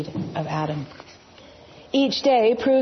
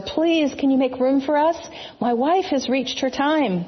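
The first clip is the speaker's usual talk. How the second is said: pleading; 5 semitones higher than usual. Acted. Joseph begging at inn door.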